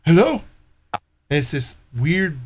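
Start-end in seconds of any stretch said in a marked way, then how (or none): 0.1-0.4 high, laughing stammer into a rising hello; hammed-up confused caller; mocking stammering caller. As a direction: play the flustered scammer, much higher. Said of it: "and they're like".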